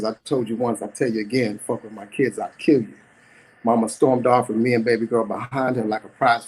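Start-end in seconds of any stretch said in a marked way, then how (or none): 0.0-2.9 steady threat. Acted. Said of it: "And she says".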